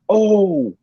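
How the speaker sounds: high, slow, awestruck gasp of joy; a kid seeing his hero walk in; hammed-up thrilled squeal, drawn out; starstruck excitement. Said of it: "And I went".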